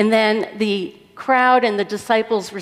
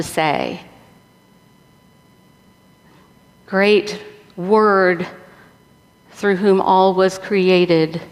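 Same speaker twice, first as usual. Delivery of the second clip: prayer; 2 semitones lower than usual. Real, not acted. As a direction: pray aloud before preaching, unhurried. Leads a prayer before preaching.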